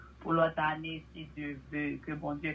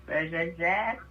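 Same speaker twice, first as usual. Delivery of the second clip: playful loud boarding call; loud drawn-out call; 6 semitones higher, 7 dB louder, much slower than usual. Pretend. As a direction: belt it out, stretching the last word. Joking flight boarding call.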